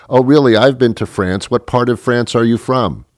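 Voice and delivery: lifted, keen, curious questioning; interested woman. Acted. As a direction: mimic a woman chatting up a stranger. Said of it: "she'll probably say".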